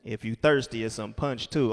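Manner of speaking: slow, hesitant list with loud ums; hesitant singer. Retold or imitated. A singer serving lunch at the shelter, awkwardly hesitant. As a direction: drag out the menu awkwardly. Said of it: "a singer be like".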